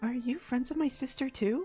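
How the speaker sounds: faked, put-on girlish voice. Showing off being able to do a girl voice. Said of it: "I know how to do a girl voice".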